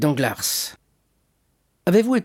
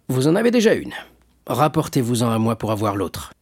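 hearty shipowner, reassuring; 3 semitones higher than usual. Acted. Shipowner explains about his business partner, genially reassuring. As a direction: weigh it up genially, then reassure.

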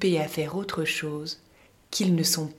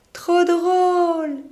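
high, loud, drawn-out giggly cry; laughing; 13 semitones higher, 9 dB louder, much slower than usual. Acted. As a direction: squeal it through laughter. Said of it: "dit Hari, qui ne peut pas s'empêcher de rire".

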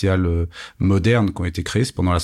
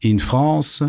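Lionel Jospin; 2 semitones higher than usual. Retold or imitated. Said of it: "Lionel Jospin, two thousand one".

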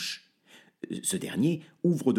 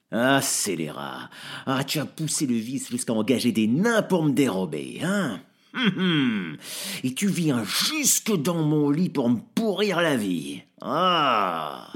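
louder gruff outrage; angry old man; 2 semitones higher, 3 dB louder than usual. Acted. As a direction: bark at the intruder. Father wakes, aims rifle. (père furieux, plus fort, qui menace le voisin)

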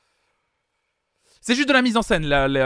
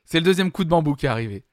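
grave, theatrical announcement; dramatic actor delivery; faster than usual. Shown as a demonstration. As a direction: overplay the tragedy like a stage actor. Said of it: "Acteur studio".

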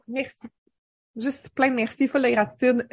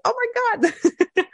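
oh my god en riant; 12 semitones higher than usual. Real, not acted. Réagit, rit.

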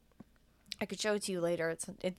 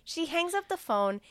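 laughing; 8 semitones higher than usual. Real, not acted. Laughs at friend's joke.

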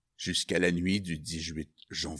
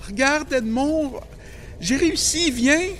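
high, loud call across; 8 dB louder than usual. Acted. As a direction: shout to him from the branch. Calls from the tree. (appel aigu et fort)

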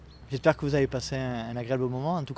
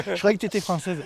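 laughing; 5 semitones higher, 4 dB louder than usual. Real, not acted. Teasing a guest about her accent.

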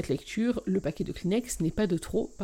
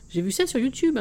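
insisting; 5 semitones higher, 5 dB louder than usual. Acted. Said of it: "insiste mon frère".

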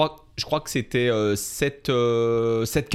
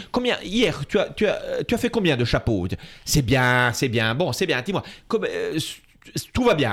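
father quoted; 4 semitones higher than usual. Retold or imitated. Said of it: "il me dit".

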